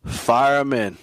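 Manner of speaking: whispered urging. Real, not acted. Host urging listeners to start the player, whispered. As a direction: hiss it like a secret tip.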